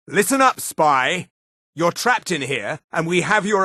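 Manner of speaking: high, hard challenge to an intruder; calling out. Acted. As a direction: call out to a cornered enemy. Guard challenges a trapped spy.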